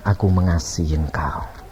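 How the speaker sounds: low, calm declaration; tender divine voice. Retold or imitated. God assures the weeping sinner, low and tender. Voicing God's love.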